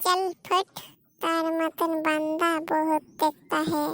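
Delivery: put-on swaggering filmi Hindi put-down to the dumped boyfriend; filmi tough-guy swagger. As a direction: talk like a Hindi film heavy dismissing a loser. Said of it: "তুই তো বেশ সাবাস অভিনয় করিস".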